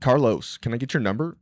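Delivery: a Southern comic performing a no-accent line on request; neutral American accent. Shown as a demonstration. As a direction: put on a plain General American voice for the ask. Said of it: "Oh, that's not bad".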